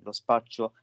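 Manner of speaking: lisping slightly through braces; words slurred by dental braces; talking with braces. Real, not acted. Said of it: "ho l'apparecchio ai denti". (parla con l'apparecchio ai denti)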